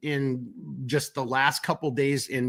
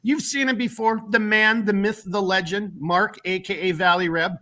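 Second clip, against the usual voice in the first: announcer intro; 6 semitones higher than usual. Acted. Hyped guest introduction.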